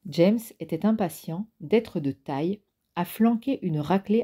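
steady audiobook reading of a novel chapter; story narration. A narrator's reading. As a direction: read it like a calm audiobook narrator.

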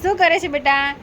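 put-on high, sing-song teasing coo to a little girl; baby talk; talking to a child. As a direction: coax the child playfully in a high voice.

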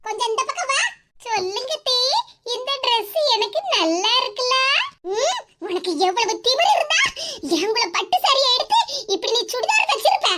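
lightly voiced scolding mother-in-law; a hint of a sharp, mocking old woman. Mother-in-law taunting her daughter-in-law over the dress, mild scolding.

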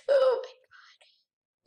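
breathless laugh, voiceless and slow; laughing whisper. Real, not acted. Player laughing at his quick death, whispered laugh. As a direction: laugh it out under your breath.

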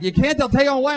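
high, loud objection; mock alarm. Acted alarmed people objecting.

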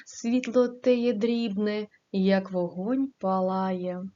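an even, measured reading of verse; poem recitation. Acted. Teacher reciting a poem to the class, in a gentle reading voice.

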